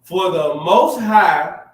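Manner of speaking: slow, solemn verse reading; scripture reading. Acted. Reading Ecclesiasticus to the audience, slow and solemn. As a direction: read it out like a pulpit reading. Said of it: "I wanna hit him with this".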